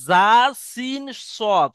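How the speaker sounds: জা, সিন, সদ hissed with the tongue on both teeth; crisp sibilant letters; Arabic letter demo. Shown as a demonstration. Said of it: "একই জায়গা থেকে উচ্চারণ হয়".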